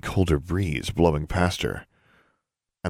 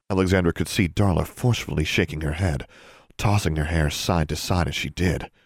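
ordinary delivery, nothing marked

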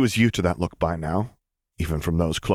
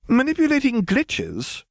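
much higher, slow disbelieving question; girl doubting the odd idea, slow and much higher; incredulous girl; slower than usual. Acted. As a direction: stretch it out in disbelief. Hermione incredulous.

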